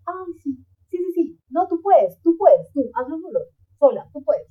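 high, breezy brush-off voice; mock dismissive friend. Friend brushing off her request for help, high mock cheer. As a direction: imitate a friend waving you off.

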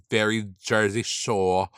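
clumsy attempt at a Jersey accent; half-hearted Jersey Shore accent; bad Jersey accent. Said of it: "that was such a bad Jersey accent".

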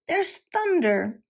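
wicked stepmother. A narrator's reading. Stepmother hears the rattling.

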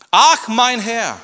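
high, loud, slow wail; drawn-out lament. Acted. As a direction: moan it in despair. Gideon's reaction, repeated. (langsam klagendes Jammern)

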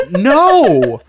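loud, high, blunt no; flat refusal. Retold or imitated. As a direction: slam the door on him with one word. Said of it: "I'm like".

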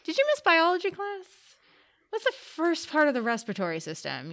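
high, scolding quiz voice; exasperated teacher. Retold or imitated. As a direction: quiz them like a fed-up teacher. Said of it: "I'm just like".

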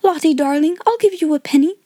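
high, sweet-talking schoolgirl; coaxing. A narrator's reading. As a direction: coax a crying little child with a bribe. Girl coaxing a crying child.

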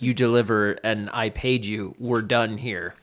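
low, quiet and stern; curt dismissive boss voice; stern bounty hunter. Retold or imitated. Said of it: "He's like".

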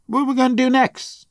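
a playful voice he catches himself doing; put-on voice. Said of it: "stop talking like that".

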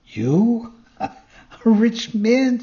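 high, loud, incredulous fox; mocking laughter. A narrator's reading. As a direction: laugh it out in scornful disbelief. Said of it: "he began to laugh out loud".

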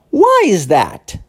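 slow surprised question. Shown as a demonstration. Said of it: "meio surpreso".

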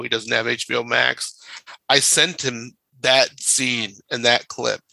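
ordinary delivery

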